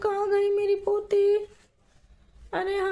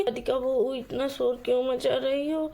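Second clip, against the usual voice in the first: put-on lower, grumbling older woman; mother-in-law roused from sleep, lower; sleepy mother-in-law; 4 semitones lower than usual. Mother-in-law scolds daughter-in-law for the noise, lower.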